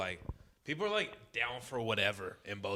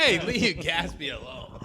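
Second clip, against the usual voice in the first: shouting; 6 semitones higher, 8 dB louder, slower than usual. Acted. Breaking up a mock fight.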